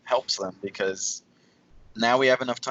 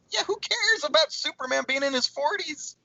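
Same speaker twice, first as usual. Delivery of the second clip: sarcastic. Real, not acted. Sarcastic retort.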